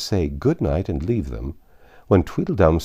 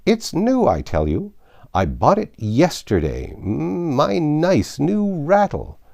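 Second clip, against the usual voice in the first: building from loud protest to a high, slow scream; rising to a scream; 9 semitones higher, 4 dB louder, slower than usual. Acted. Tweedledum rages over his new rattle, building to a high scream. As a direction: wind up into a tantrum scream. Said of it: "his voice rose to a perfect scream".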